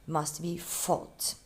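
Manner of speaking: must be fought, said slowly with weight on be; slow and stressed. Shown as a demonstration. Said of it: "in the past participle".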